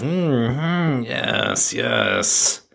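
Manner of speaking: put-on, slightly Irish researcher voice; weird Irish accent. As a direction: take notes aloud in an odd Irish accent. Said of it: "Irish accent".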